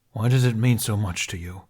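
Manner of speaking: pained, angry question. Acted. Qui-Gon asking Ben, pained and angry. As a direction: ask it hurt and angry. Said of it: "pained and angry".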